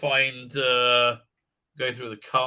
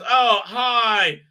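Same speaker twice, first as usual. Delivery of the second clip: mocking girl boss voice. Mocking the show's heroine, a chirpy sarcastic girl boss voice. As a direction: ham up a peppy self-important heroine. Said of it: "And she goes".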